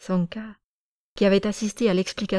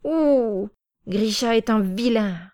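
high, louder sulky howl, slowed; child's bellow; 3 semitones higher, 3 dB louder, slower than usual. Acted. Small girl howling against Grisha, loud and sulky. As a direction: wail it like an upset small girl. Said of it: "fit une grimace et mugit".

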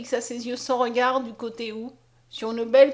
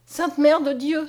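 slow, higher, louder cry to the Virgin; fervent exclamation; 5 semitones higher, 6 dB louder, slower than usual. A narrator's reading. Mariette praying after Conscience's cure, fervent cry. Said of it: "s'écria la jeune fille".

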